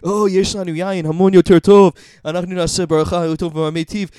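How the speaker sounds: loud, pompous wine snob; snobby voice. Retold or imitated. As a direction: show off like a snob. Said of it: "אני ראיתי אנשים סנובים".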